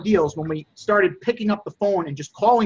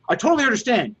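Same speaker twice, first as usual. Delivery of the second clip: a stiff, higher, going-through-the-motions line; robotic, fake sympathy; 5 semitones higher, faster than usual. Shown as a demonstration. Seller reciting empathy to a customer, fake and robotic. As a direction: say it like a robot reading a script. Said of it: "You, you can't be like a robot with this".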